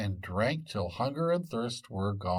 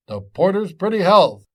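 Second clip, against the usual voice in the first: loud, higher rowdy toast; toast cried out; 8 semitones higher, 11 dB louder than usual. Acted. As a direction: raise a glass and shout it. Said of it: "cried out every one of them".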